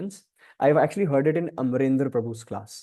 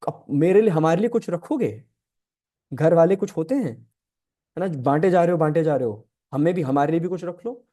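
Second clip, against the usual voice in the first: lightly voiced wife's plea, slightly raised pitch; Parvati's pleading; 3 semitones higher, faster than usual. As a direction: gently nag as the goddess asking her share. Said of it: "Parvati मैया उनको ऐसे देख रही है". (पार्वती की हल्की शिकायत भरी मनुहार)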